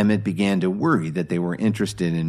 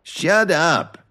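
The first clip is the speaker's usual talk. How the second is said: angry command; 10 semitones higher, 3 dB louder than usual. A narrator's reading. Thug silences bound officer.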